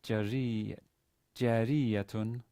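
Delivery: drawn-out "jariyatun", stress on the "ri"; "jariyatun" sounded out syllable by syllable; careful model reading. Shown as a demonstration. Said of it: "the first word is to be read".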